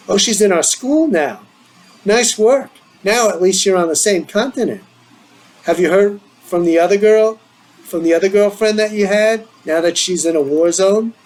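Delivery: a hint of a teasing friend; teasing friend Michael.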